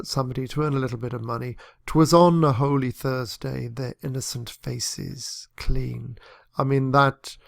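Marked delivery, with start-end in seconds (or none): 1.9-6.2 ballad reading. Shown as a demonstration. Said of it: "very typical ballad opening".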